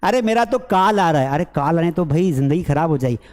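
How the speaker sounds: कॉल said as "kaal", long aa; mispronounced call. Retold or imitated. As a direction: imitate a learner saying "kaal" for कॉल. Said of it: "पप्पा वाली English". (कॉल को "काल" बोलने की नकल)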